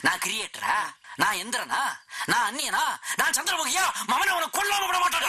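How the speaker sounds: from plain questions up to a high shouted threat; building rage. Acted. Insulted man ranting at the boy, building to a shouted threat. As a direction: let each question climb until you explode.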